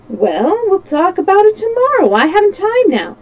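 high, loud, hurried-off dismissal; brushing off. A narrator's reading. Servant has no time for detective, brushing off. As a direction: put him off in a high, lively voice.

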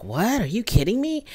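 imitating a stunned mom, voice rising at the end; flabbergasted. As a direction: act out her disbelief, question swinging upward. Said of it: "she's flabbergasted".

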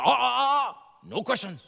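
wag a finger with the voice, stopping the question; Miyagi cutting him off. Retold or imitated. The teacher hushes Daniel's question, a put-on Miyagi "ah, ah". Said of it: "and Miyagi goes".

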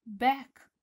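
loud teacher demo. Shown as a demonstration. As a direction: call out the word. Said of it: "cu spatele".

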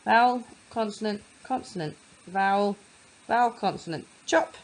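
each label set apart with a pause; teacher labeling letters. Shown as a demonstration. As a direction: mark each letter in turn. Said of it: "I start with the first vowel".

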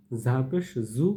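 buzzing z in 'ঝা পেশ জু'; cricket-like buzz. Shown as a demonstration. Teacher repeats za pesh for practice, with a cricket buzz on 'জু'. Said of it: "ঝিঝি পোকার মতো".

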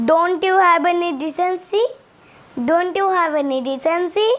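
each word of Don't you have any decency spaced out slowly; slow teaching model sentence; slow English demo. Shown as a demonstration. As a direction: spell it out slowly for learners. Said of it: "এটাকে ইংলিশে কেমনি করে বলবে".

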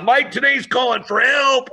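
hammed-up pained yell, not full force; retold scream. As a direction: yell it like your leg is being torn off. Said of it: "I'm screaming".

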